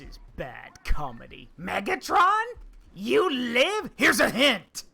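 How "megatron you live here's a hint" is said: lightly voiced Starscream. Quoting Starscream scene.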